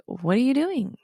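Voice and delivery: irritated mock demand; agitated. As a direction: snap it out, fed up. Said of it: "like, agitated".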